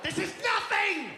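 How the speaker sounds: put-on high, loud, whining child; whiny kid shout. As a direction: wail it like a spoiled kid. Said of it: "the kid's like".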